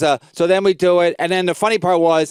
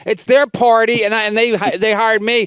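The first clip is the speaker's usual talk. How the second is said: higher-pitched, worked-up protest; retold indignant argument; 5 semitones higher than usual. Comic arguing with club owner over his show, indignant. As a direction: argue it heatedly, retelling the row.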